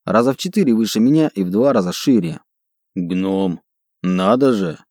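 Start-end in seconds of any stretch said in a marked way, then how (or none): 3.0-4.8 orc chieftain in broken Dwarvish; halting, low orc speaking a foreign tongue. Acted. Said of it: "произнёс атаман на ломаном языке гномов".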